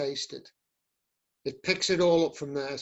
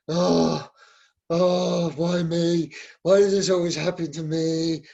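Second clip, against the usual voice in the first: wallow in a hammed-up why-me moan; acted breakup misery; self-pitying misery; 4 dB louder than usual. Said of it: "you get into the misery".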